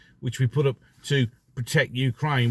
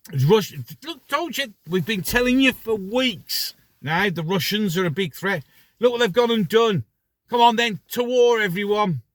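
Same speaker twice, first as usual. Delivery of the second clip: mock official announcer; 8 semitones higher than usual. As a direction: ham up a smug official calling for war. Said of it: "all they have to do is say".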